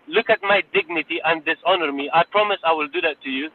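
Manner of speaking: ordinary delivery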